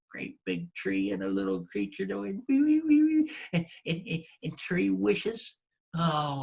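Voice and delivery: a scoffing wife's voice, lightly done; wife brushing off husband's tall tale; sceptical wife. Acted. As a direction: doubt every word he says. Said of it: "And his wife said".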